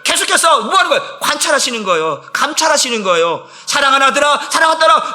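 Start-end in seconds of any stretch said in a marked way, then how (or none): 3.7-5.1 raised, higher loving call; calling out as God. Acted. God calling his sons and daughters, in a raised fervent call. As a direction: call out to beloved children with fervor.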